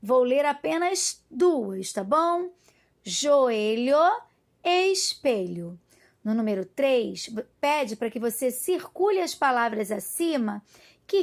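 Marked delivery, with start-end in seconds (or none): 3.0-5.8 slow, separated word-by-word reading; measured model reading with a pause between words; calm careful reading. Shown as a demonstration. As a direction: read each word out slowly for young learners. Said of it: "fazer a leitura com bastante calma".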